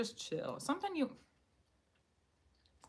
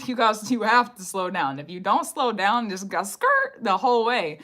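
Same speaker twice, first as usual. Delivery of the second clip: louder, laughing urgency; emphatic warning; 7 dB louder than usual. Real, not acted. Reader urging viewers with a louder warning.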